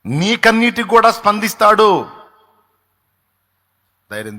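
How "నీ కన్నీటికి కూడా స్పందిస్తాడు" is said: higher, louder storytelling; excited high-pitched preaching; preaching at full force. Acted. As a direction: drive the story forward with fervor. Preaching climax, loud.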